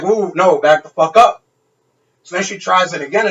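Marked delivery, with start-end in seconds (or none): 0.0-1.4 mock rebuff. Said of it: "I'm like".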